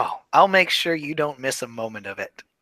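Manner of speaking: soft, quiet, menacing delivery. In a role-played scene, answering another character: menacing. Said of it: "Why do you make everything sound so menacing?".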